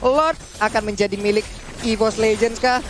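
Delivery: usual speaking voice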